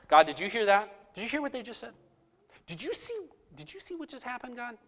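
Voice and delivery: tattle to God in hushed disbelief; mock indignant prayer. Preacher acts his own prayer.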